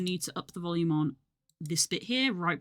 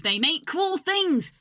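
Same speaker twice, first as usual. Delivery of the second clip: excited; 11 semitones higher, 6 dB louder, slower than usual. Real, not acted. Hyped plug for the studio.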